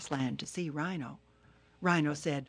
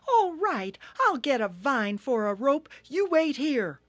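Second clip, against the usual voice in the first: high, louder turtle challenge; angry Turtle; 9 semitones higher, 8 dB louder than usual. Acted. Turtle angrily challenging Hippo, high and loud. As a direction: fire back, high and cross.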